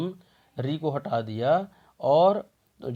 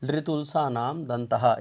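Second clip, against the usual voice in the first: slow recited rule; slower than usual. Shown as a demonstration. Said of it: "दंत कौन कौन से वर्णों का होता है".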